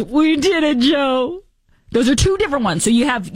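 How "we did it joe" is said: high, cheery phone-call voice; imitating Kamala Harris. Host mimicking Kamala congratulating Joe, high and cheery. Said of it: "very different from Kamala Harris's".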